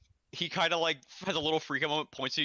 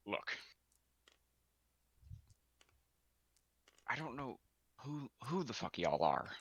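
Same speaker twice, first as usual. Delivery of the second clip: weary grocer. Acted. Grocer sighs, tired questioning.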